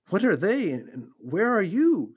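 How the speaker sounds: loud, high, stammering demand; screamed. A narrator's reading. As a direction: cry out in frantic confusion. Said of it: "screamed Wilbur".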